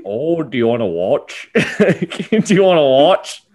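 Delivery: a goofy put-on DeVito voice breaking into laughs; mock Danny DeVito. Mock DeVito asking the husband if he wants to watch. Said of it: "me and Danny DeVito going".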